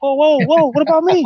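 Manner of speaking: mock indignant protest. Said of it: "And I'm like".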